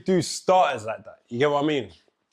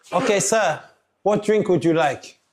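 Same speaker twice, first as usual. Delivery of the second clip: waiter voice; 6 semitones higher than usual. Acted. Plays waiter taking drink order.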